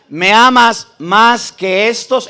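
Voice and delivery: slow. Shown as a demonstration. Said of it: "Escuchen bien las preguntas".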